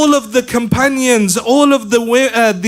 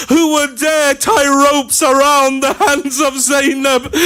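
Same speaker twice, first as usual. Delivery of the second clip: raised, ringing preacher's cry; impassioned cry; 3 semitones higher than usual. Acted. Preacher crying out Zainab's words to the mourners, raised and impassioned. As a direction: declaim it like a proud sister's defiance.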